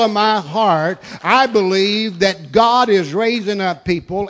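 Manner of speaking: loud, emphatic preacher's voice; forceful preaching. Real, not acted. Preacher assuring congregation God is moving, forceful preaching. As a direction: drive it out loudly to the congregation.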